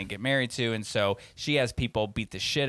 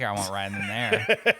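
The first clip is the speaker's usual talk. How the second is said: slow, through a laugh; amused, drawn-out refusal; 4 semitones lower, slower than usual. Real, not acted. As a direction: laugh while refusing to ride. Laughing about scary rides.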